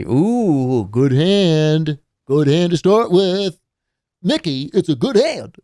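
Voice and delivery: dwarf delighted with his dice; gloating dwarf. Acted. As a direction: crow over the good hand as the dwarf.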